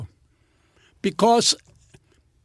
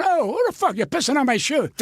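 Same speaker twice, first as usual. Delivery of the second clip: high, indignant outburst in a retold toilet scene; "who" flung out high, stunned and angry; outraged yell; 5 semitones higher than usual. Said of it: "And I'm going".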